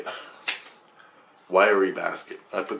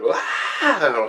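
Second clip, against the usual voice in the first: breathy mock yell, pitched up; imitated freak-out yell; 5 semitones higher than usual. Retelling his yell at finding a skeleton, mock scream. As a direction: act out a startled "ah". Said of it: "and I yelled, like".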